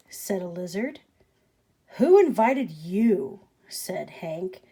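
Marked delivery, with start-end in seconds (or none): 2.0-3.4 grumpy. Acted. Grumpy cactus to lizard.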